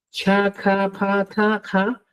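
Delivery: "chacapataja" very slow with a puff of breath after ch, k, p, t; aspirated stops. Shown as a demonstration. Teacher demonstrates aspirated stops for his class. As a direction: breathe out hard on each stop of "chacapataja". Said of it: "Recuerda que puedes estar soplando".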